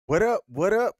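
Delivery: high, loud hype opener; hype greeting. Real, not acted. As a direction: hype up the audience. Show opening greeting.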